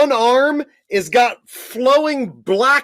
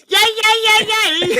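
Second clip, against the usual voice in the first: much higher, gleeful cheering; excited cheer; 12 semitones higher than usual. Real, not acted. GM cheering when Vince falls into the fire. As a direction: cheer like your team just scored.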